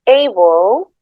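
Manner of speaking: "able" slow, with a schwa before the l; weakened vowel to schwa. Shown as a demonstration. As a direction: draw out "able", rising at the end. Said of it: "we pronounce it as".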